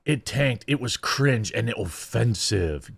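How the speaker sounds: lightly mocking quote, drawn out; mildly hammed-up disapproval, slowing down; mock outrage. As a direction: parody a critic's complaint, stretching the words slowly. Mockingly quoting the media's complaints.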